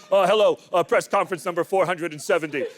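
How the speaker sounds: lightly voiced police press conference; mock police spokesman. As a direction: play a bumbling official making an announcement. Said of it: "How about that Santa Fe police?".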